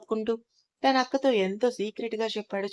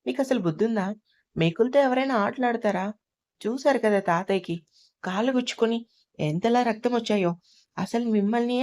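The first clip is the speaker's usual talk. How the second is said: mildly raised scolding voice; a father's stern telling-off, understated; scolding the kids. Acted. Father scolding his kids over the nails, mildly raised angry voice. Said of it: "పిల్లల మీద అరుస్తున్నావు".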